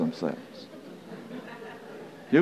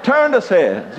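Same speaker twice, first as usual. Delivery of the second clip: repeated higher with a laugh; laughing rabbit line again; rabbit's voice; 5 semitones higher, 3 dB louder, slower than usual. Retold or imitated. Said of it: "and he said".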